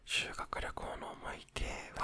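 soft unvoiced whisper; ひそひそ声. Real, not acted. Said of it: "ひそひそ声で話をしていこう". (寝室でこっそり話すささやき声)

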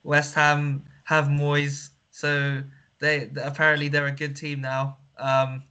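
flat robotic monotone. Acted. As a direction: talk like a deadpan robot. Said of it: "stop this stupid, like, robotic voice".

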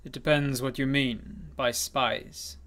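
slow, deliberate and evasive; slow evasive reply. Acted. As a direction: draw it out slyly. Stranger evades question.

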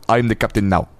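lightly attempted Somali accent; a hint of Somali pirate. Shown as a demonstration. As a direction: give the movie line a Somali tinge. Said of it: "do that accent".

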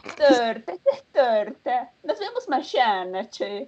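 put-on Argentine Disney Channel accent on "Torta" and "che"; mock Argentine. Showing off her Argentine accent to friends, a light Argentine lilt. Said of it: "argentinos en Disney Channel".

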